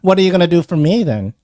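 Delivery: pert, fast-talking fairy; bargaining pixie. Acted. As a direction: fire it off as a demanding pixie.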